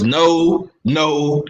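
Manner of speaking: low, spaced-out refusals in a borrowed voice; lightly mimic, dropping low on each word; Act Richer. Co-host objecting to praise of Boo Boo, lightly mimicking. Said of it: "in my Act Richer voice".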